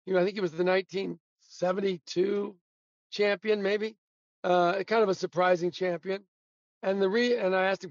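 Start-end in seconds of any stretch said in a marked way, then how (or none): none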